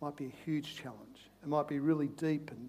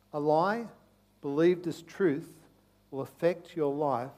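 slow, spaced phrases for note-taking; slower than usual. Shown as a demonstration. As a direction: let each phrase land slowly. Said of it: "Write that one down".

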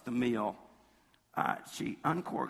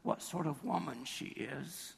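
lightly acted disdain, a little softer; superior, self-righteous; 2 semitones higher, 5 dB quieter than usual. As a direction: imitate a Pharisee looking down on her. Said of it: "that superior, that self-righteousness".

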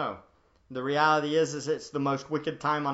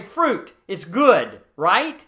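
naive listener; 2 semitones higher, 7 dB louder, much slower than usual. Retold or imitated. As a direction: play the listener who misreads it. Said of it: "you might say".

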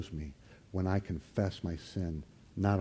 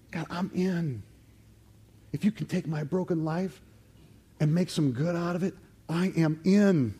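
eager vow; 8 semitones higher, 5 dB louder than usual. Acted. Isaiah-like vow acted out.

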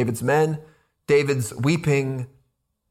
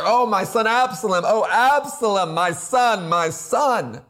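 mildly raised, grieving cry; loud mournful cry; 4 semitones higher than usual. Acted. Preacher re-enacts the king mourning Absalom, mild loud cry. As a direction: act out a father's lament, starting higher and easing down. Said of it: "he cried with a loud voice".

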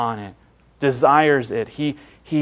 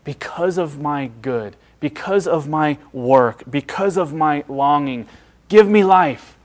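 mock self-righteous demand. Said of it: "I am so glad that he doesn't say".

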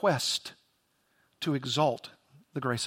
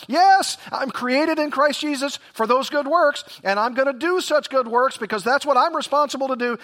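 higher and louder, mock-eager believer; eager churchgoer; 8 semitones higher, 4 dB louder than usual. Preacher imitating a congregant who boasts of works, mock-eager. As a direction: play the keen self-reliant Christian, hammed up. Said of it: "I can see someone saying it right now".

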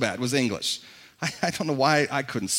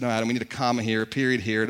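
teacher correcting; 7 semitones lower, 5 dB quieter, faster than usual. Retold or imitated. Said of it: "the English teacher would have come through and said".

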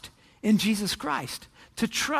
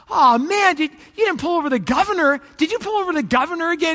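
higher-pitched, dismayed disbelief; alarmed captain; 4 semitones higher, 4 dB louder than usual. Acted. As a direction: blurt it out as an acted, worried boss. Captain acted, alarmed at report.

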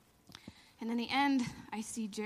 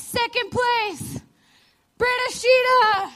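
slow, much higher and louder mock announcer; 12 semitones higher, 15 dB louder, much slower than usual. Announcer at the awards calling her name, slow and loud. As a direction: boom it out like the host naming the winner.

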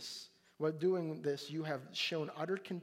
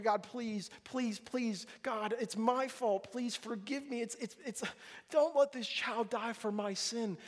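pleading; 5 semitones higher than usual. Retold or imitated. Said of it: "Just like any of us".

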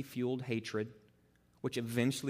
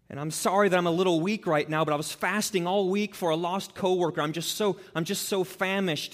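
a hint of a humble-bragging friend, higher pitched; mock pious friend; 5 semitones higher than usual. Preacher mimicking a friend boasting of fasting, mock pious. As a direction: lightly ham up the saintly sufferer.

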